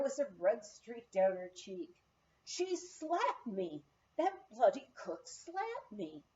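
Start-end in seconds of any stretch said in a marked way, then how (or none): 2.4-6.2 high, slow, tearful outburst; a lightly voiced young woman near crying; wronged and close to tears, pitched high; upset in tears. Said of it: "came running to me in the office in tears".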